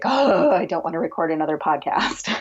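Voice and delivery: exaggerated weary "Oh", then grumble; mock stressed-out reluctance. Podcaster imagining herself burned out on making a living, mock reluctance. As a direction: play up the dread, half laughing. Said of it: "become so stressed out".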